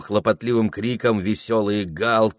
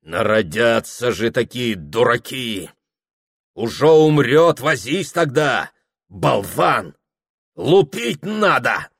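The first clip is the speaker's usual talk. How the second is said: louder, higher angry scolding; harsh scolding; 3 semitones higher, 4 dB louder than usual. A narrator's reading. Father scolding Prokhor on the road, harsh and angry. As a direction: berate the fool harshly. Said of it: "Отец говорил жёстко".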